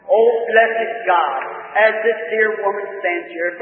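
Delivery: slow, drawn-out opening, then earnest pleading; fervent prayer. Real, not acted. Preacher cursing a woman's chest trouble, fervent prayer. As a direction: rebuke the disease as God's servant. Prays, curses the disease.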